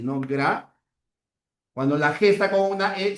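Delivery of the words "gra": "Gra" set apart as one syllable; syllable shown. Shown as a demonstration. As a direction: sound out "Gra" alone, with a hard g. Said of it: "La transcripción sería así".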